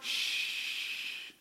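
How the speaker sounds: soft unvoiced shh like a mother to a baby; soothing mom shush; mother's hush. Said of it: "You know what mom does?".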